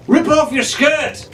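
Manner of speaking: high, slow urgent order; urgent call. A narrator's reading. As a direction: order it under strain, slowly. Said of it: "Jack called out".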